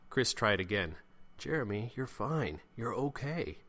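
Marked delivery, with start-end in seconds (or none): 1.4-3.6 higher-pitched soothing appeal; reassuring. Acted. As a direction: gently insist to calm someone down. Chris reassures Jeremy.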